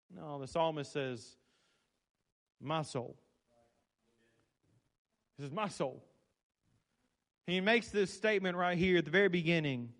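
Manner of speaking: soft, reverent near-whisper; hushed preaching. Acted. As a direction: draw them in with a hush. Drops into hushed intimate preaching.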